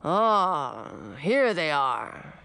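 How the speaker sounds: put-on slow, rumbling old dragon; a grand old dragon, taking his time; old dragon king.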